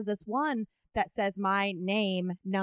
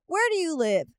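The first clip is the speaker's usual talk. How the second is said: put-on very old man; 7 semitones higher, 3 dB louder than usual. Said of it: "It's a very old man".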